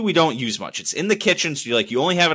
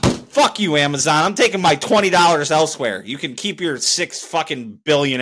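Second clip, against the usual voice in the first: fed-up ranting sign-off, louder; angry kiss-off; 2 semitones higher, 3 dB louder than usual. Real, not acted. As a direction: tell Amazon off for good.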